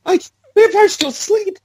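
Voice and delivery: slow, high-pitched vampire protest; mock vampire. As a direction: play an offended vampire. Playing a vampire.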